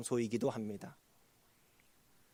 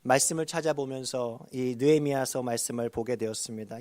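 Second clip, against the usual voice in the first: normal talking voice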